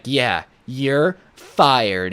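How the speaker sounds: very slow, deliberate mock firing; staged firing. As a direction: draw out the pretend dismissal word by word. Boss stages a fake firing.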